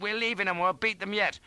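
high, urgent cheer; exultant shout. A narrator's reading. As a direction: call out in triumph. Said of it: "I shouted".

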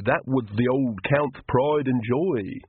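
Igor voice. Acted. Igor speaking.

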